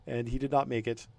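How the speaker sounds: a lightly voiced frightened line soldier; nervous German soldier. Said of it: "it's like".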